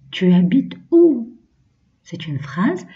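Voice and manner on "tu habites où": higher "Tu habites où" stressing "où"; higher repeat. Shown as a demonstration. Teacher repeats the question higher for children. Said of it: "Deuxième phrase".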